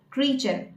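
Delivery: "Creature" in two syllables, KREE-cher; correct pronunciation. Shown as a demonstration. Coach repeating the right form, correct pronunciation. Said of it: "but it's creature".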